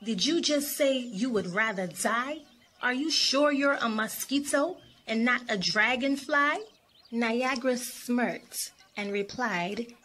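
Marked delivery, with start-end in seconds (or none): 0.0-6.6 questions lifting in mild disbelief; curious questioning. Acted. Champagne doubting her friend is a mosquito, curious. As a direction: ask with puzzled curiosity. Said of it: "Champagne asked curiously".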